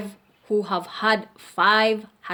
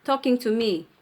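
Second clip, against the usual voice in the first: mild rude retort; 4 semitones higher, faster than usual. Retold or imitated. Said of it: "this woman has something like that character".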